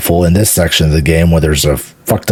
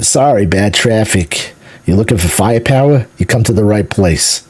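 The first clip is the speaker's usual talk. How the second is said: imitating Chopper Mike's Northeastern accent, loosely; casual pilot with a mild Northeastern accent; 4 semitones higher than usual. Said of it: "a Northeastern accent".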